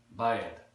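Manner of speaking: "Bad" stretched to "ba-yad"; "Bad" with an aya glide; Texan pronunciation. Shown as a demonstration. Teacher demonstrating Texan, "Bad" with aya vowel. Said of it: "that aya sort of sound".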